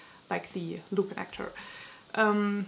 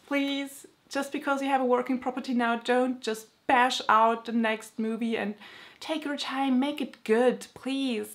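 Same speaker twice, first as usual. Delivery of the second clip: pleading; 4 semitones higher than usual. Real, not acted. Pleading with the film studio.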